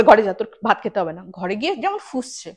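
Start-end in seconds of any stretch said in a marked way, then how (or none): 0.0-1.2 mock loud scolding, clearly louder; a mother's loud order sent with a raised voice. Mother sends her angry daughter away, a loud mock scold.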